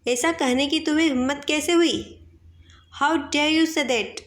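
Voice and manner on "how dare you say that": slow, offended challenge; indignant. Shown as a demonstration. Teacher demonstrating an indignant retort. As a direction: stretch it out in mock outrage. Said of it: "कैसे बोलेंगे".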